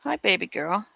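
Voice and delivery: soft cooing greeting. Real, not acted. Greeting the dog, baby talk.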